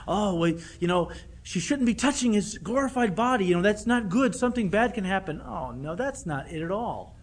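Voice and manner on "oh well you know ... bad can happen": a hint of a fretful busybody, higher and louder; lightly mock the over-cautious readers; mocking the worriers. Preacher mocks people who read mysticism into it, fussy mock worry. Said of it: "some people have tried to read into this".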